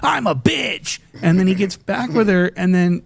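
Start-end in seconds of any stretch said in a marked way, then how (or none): 0.0-1.0 high mocking echo, rising; mocking impression. Commentator mocks Lush's words, high mocking echo. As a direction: whine it back at him, much higher.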